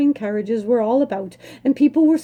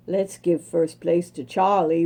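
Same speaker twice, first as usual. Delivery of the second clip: villager's cheer; 7 semitones lower than usual. A narrator's reading. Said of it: "one said".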